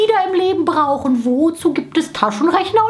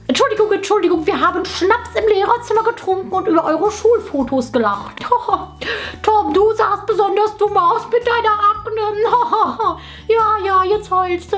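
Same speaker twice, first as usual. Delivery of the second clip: high, giggling through the words; laughing teacher; 6 semitones higher than usual. Acted.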